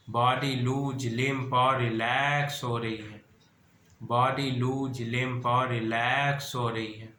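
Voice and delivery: measured, repetitive hypnotic cadence with stretched key words; guided meditation. Acted. Guide relaxing listeners' breath, body and eyelids, measured meditation voice. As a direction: lull them into relaxation, phrase by steady phrase.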